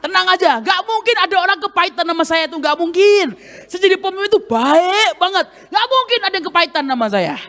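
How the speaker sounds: mock cocky self-praise; smug boast. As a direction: play the proud leader who thinks everyone loves him. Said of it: "Saya mulai sombong kan".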